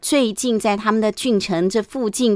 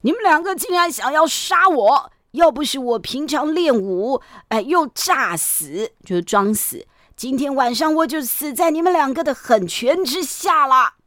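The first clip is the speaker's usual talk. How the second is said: scolding grandfather; 4 semitones higher than usual. A narrator's reading. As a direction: scold the grandsons for attacking him. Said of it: "就骂这两个孙子了". (怒骂孙子的老爷爷)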